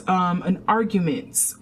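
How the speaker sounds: ordinary delivery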